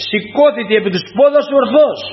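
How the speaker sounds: put-on mildly projected command with accented peaks; mild acted shout. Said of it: "Με μεγάλη φωνή φωνάζει και του λέει".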